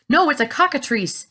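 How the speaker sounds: high, loud alarmed yell. A narrator's reading. Police chief yelling from the rooftop. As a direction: shout the monster's name. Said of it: "yelled the chief of police".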